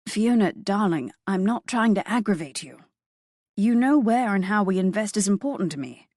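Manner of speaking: gently pleading, lightly voiced British husband; husband soothing his irritated wife, softly beseeching. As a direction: coax her calmly, a touch of posh British. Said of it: "His voice was soft, beseeching".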